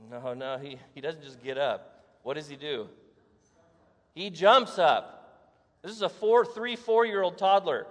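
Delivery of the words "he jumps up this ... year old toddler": slow, loud burst on jumps; excited. Retold or imitated. Preacher telling the congregation of the leap, loud and slow. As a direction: hammer out the jump, big and slow. Dramatic retelling of healing.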